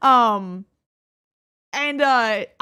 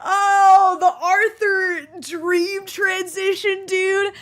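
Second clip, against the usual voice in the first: laughing; 7 semitones higher, 6 dB louder, much slower than usual. Real, not acted. Laughing at old clip.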